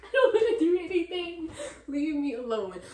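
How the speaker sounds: loud and high, laughing through it; laughing shout. Real, not acted. Laughing off dating in a loud shout. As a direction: yell it while cracking up.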